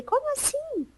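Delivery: high, soft, acted disbelief; taken aback. Employee told she is unfit, softly incredulous. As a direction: ask it in a small, high voice. Reacts to being told she's useless.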